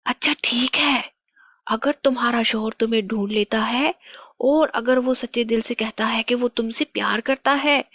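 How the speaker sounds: lightly voiced witch laying down terms; scoff, then set the challenge; scornful witch. (ताना मारती चुड़ैल)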